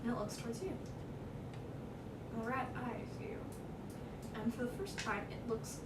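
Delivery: hushed game master storytelling; suspenseful narration. Acted. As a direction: draw out the suspense softly.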